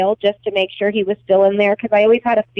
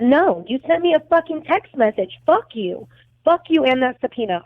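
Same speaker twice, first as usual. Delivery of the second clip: retold angry refusal; 3 semitones higher than usual. Woman retelling how she refused the detective over a texted subpoena, indignant. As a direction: refuse indignantly, as if replaying the argument.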